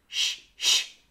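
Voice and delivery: soft hushing; shushing. A narrator's reading. Other birds hushing the whining parrot, whispered. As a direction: hush the parrot gently. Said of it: "asked her to be quiet".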